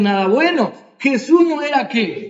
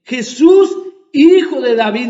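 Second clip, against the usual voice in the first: louder plea, rising on Jesús; pleading cry; 4 dB louder than usual. Retold or imitated. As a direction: call out to the king for mercy. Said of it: "el ciego comenzó a decir". (el ciego suplica al rey en voz alta)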